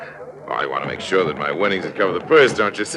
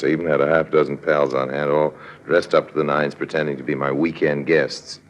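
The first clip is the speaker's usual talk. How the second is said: cool, knowing narrator voice; lightly voiced sly narrator, telling it to the audience; smug storyteller aside; story narration; 2 semitones lower than usual. A narrator's reading. Harry Lime narrates the scheme.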